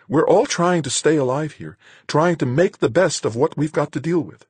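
high, urgent woman's voice; exasperated woman character. Acted. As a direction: plead your case in a high voice. Marguerite argues with Van.

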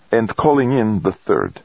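high, mildly put remark; milder tone. A narrator's reading. Base operator backs down after challenging the astronaut, milder tone. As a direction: concede the point mildly. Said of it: "Dezhurova said, much more mildly".

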